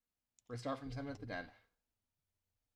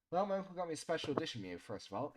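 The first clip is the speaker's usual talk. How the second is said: smirking; 4 semitones higher than usual. Acted. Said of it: "he said, smirking a little".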